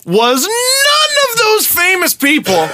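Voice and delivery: orate it like a pompous tribute; mock grandiose.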